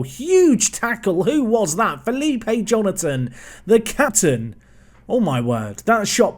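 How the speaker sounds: high, drawn-out burst of amazement; excited commentary. Real, not acted. Gamer reacting to his captain's saving tackle, excited commentary. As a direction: hail the tackle, pitch leaping, words stretched.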